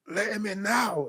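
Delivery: high, drawn-out slow yell; mock scream at mum; sister screaming. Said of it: "she just started screaming".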